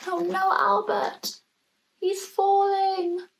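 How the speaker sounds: high, slow alarmed parent's cry; a parent's frightened call. Acted. Parents see Albert fall.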